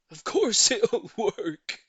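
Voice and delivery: loud, slow, with a chuckle; laughing reassurance. A narrator's reading. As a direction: laugh off her doubt. Laughs in reply.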